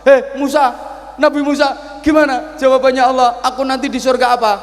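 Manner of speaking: high, loud demanding call; impatient old man. Acted. Old worshipper demanding Musa reveal his fate, impatient. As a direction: press for an answer.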